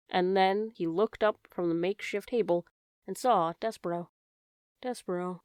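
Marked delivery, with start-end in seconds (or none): 4.8-5.4 soft, awed name; whispered. Acted. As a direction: breathe his name in disbelief. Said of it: "he whispered".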